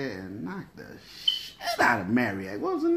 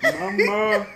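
dusty mummy rasp; 7 semitones higher, 6 dB louder than usual. Retold or imitated. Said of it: "sounded like a mummy".

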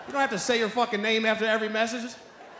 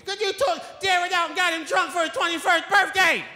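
higher, scolding grandma reply; 7 semitones higher than usual. Retold or imitated. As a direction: answer like an annoyed grandmother. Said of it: "call my grandma back".

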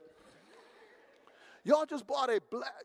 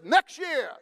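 hopeful fan; 6 semitones higher, 9 dB louder than usual. Retold or imitated. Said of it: "Cowboy fans says".

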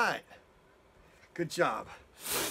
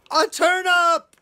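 loud, high burst of excitement; excited duck; 12 semitones higher, 10 dB louder, slower than usual. Acted. Storyteller voicing Duck pushing his turnip, loud and excited.

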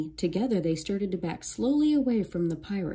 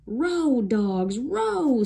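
high barked rowing command; barked order; 6 semitones higher, 3 dB louder, much slower than usual. A narrator's reading. Captain barks at his men to row. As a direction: drive the rowers on.

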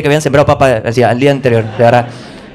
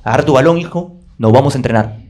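uncle's lower voice; 6 semitones lower than usual. Retold or imitated. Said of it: "Me dijo".

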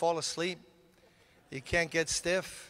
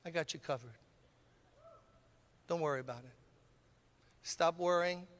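gentle reassurance. Retold or imitated. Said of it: "the Lord speaks to me and says".

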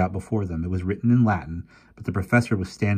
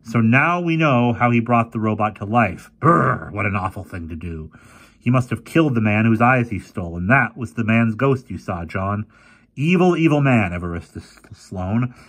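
a hint of a spooked young boy; boy Fergie; 3 semitones higher, 5 dB louder than usual. Fergie speaking to the professor.

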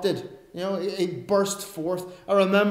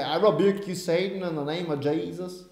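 put-on American accent. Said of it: "say that in an American voice".

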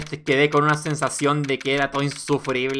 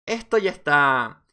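weary deadpan; 4 semitones lower, much slower than usual. Acted. Deadpan comment on bad joke.

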